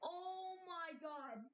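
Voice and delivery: slow, choked-up oh my god; close to tears. Real, not acted. Streamer overwhelmed by the donor, near tears. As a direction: let the emotion almost break you. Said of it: "I'm about to cry".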